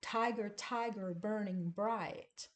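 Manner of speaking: stressed first syllables, tiger, tiger, burning bright; sing-song trochee beat; trochaic rhythm. Shown as a demonstration. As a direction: lean on the first beat of each word. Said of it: "But listen to Tiger".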